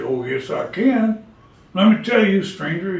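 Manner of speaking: put-on an overworked old horse airing grievances; talking horse.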